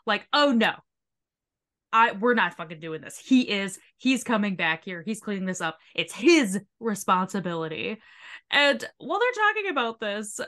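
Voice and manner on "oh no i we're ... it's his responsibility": aggressive. Retold or imitated. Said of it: "like, aggressive".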